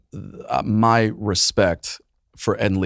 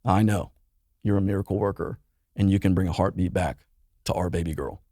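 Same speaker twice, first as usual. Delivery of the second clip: softer, hushed pleading prayer; retold prayer; 4 dB quieter than usual. Praying to God on the drive, hushed and pleading. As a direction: quietly pray it back as he did in the car. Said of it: "I am praying the entire way".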